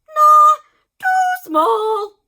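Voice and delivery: high, loud snap; dismissive doctor. A narrator's reading. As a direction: reject it fast and high.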